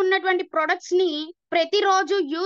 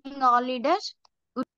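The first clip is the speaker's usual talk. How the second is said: words dropping out on a poor line; bad connection; 3 semitones lower, much slower than usual. Real, not acted. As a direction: voice cutting in and out. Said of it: "మీ voice break వస్తుంది".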